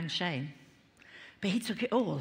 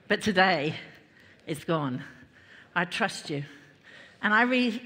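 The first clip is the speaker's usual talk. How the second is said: led prayer; 2 semitones lower than usual. Real, not acted. Preacher leading the congregation in prayer, measured and earnest.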